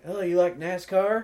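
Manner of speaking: put-on slack-jawed yokel Kentucky accent. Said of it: "I do the slack-jawed yokel talk".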